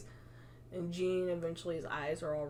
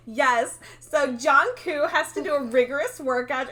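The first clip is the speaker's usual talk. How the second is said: mock vapid narrator; 6 semitones higher, 9 dB louder than usual. Mocking vapid YouTube channel.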